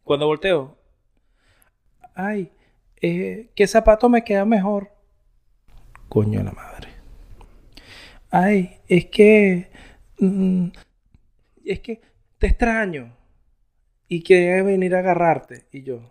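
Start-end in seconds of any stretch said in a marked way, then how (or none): 2.1-4.9 a hint of a higher, sing-song wife voice; mimicking wife. Imitates wife interrupting him. 6.1-6.9 whispered, lower, under the breath; whispered curse. Retold or imitated. Frustrated aside. 8.3-15.7 mock her pleading tone; mock sweet wife. Imitates wife's sweet excuse.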